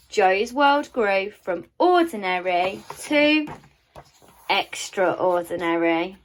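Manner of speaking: put-on lively read-aloud to children; storybook narration. A narrator's reading. Teacher reading a storybook aloud to children, lively and expressive. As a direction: read it like a bedtime picture book. Reads picture book aloud.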